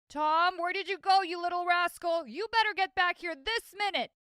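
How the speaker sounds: furious father yelling for his missing son; angry father shouting. A narrator's reading. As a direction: bellow for the runaway boy like an angry dad. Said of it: "I heard a man's loud voice".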